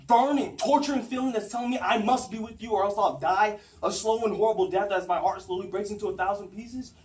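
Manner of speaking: agitated, emphatic romantic rant; impassioned. Acted. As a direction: build into a torrent of anguished protest. Impassioned monologue, argues against his feelings.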